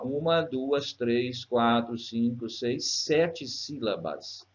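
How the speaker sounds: evenly spaced count, slowing at the end; counting aloud. Shown as a demonstration. Teacher counting a verse's syllables for students, measured count. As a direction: count each syllable off, landing slowly on sete.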